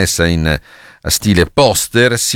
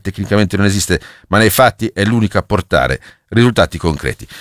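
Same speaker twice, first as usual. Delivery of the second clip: pompous vintage newsreel announcer; old newsreel voice. Shown as a demonstration. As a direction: declaim it like a 1940s newsreel. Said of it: "voce da cinegiornale degli anni".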